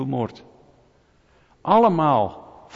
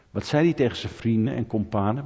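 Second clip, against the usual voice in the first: Amsterdam accent; 4 semitones lower than usual. Shown as a demonstration. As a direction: ask it like a plain-speaking Amsterdammer. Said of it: "Ik zeg het even op zijn Amsterdams". (licht Amsterdams accent)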